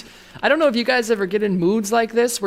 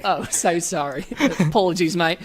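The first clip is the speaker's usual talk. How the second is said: put-on Australian accent. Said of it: "Don't break character, Tony".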